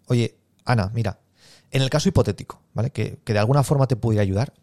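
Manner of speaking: natural, measured hypothetical question; considered and engaged, playing down the sale; right sales tone. Shown as a demonstration. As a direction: open gently, pausing before the hypothetical. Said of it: "el tono es importante".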